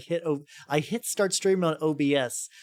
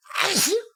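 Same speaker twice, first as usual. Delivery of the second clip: sneezing; 7 dB louder than usual. Real, not acted. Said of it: "I'm very sneezy today".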